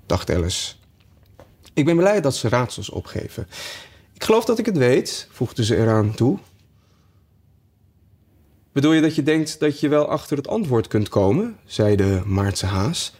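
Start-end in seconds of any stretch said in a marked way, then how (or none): 1.7-5.3 high-pitched, curious Alice; eager Alice. Acted. Alice taking up the riddle, eager and high. 8.7-11.6 lightly voiced hare, pitched up; a raised, querying March Hare; questioning March Hare. March Hare questioning Alice, lightly voiced and higher.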